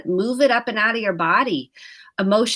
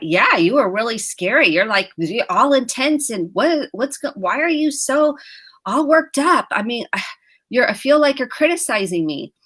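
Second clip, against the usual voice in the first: put-on upset child; 4 semitones higher than usual. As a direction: voice the hurt kid accusing mom. Child's feedback voiced by parent.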